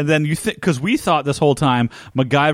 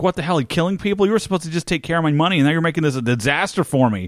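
higher, quick mock indignation; retold scolding; 3 semitones higher, faster than usual. Lucky Charlie scolds his henchman over killings, indignant. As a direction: imitate an exasperated boss, rattling it off.

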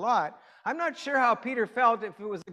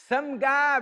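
"Some guy" in a light British accent, a bit higher; 5 semitones higher, 4 dB louder than usual. Shown as a demonstration. Preacher demos "Some guy" to the congregation, light British accent. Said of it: "you gotta say it with a British accent".

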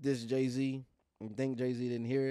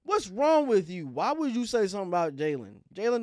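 exasperated scolding; 8 semitones higher, 10 dB louder than usual. Acted. Mock scolding a rival.

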